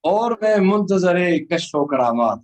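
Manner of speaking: solemn, measured poem delivery; stately nazm recitation. Acted. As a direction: recite the nazm slowly to the audience.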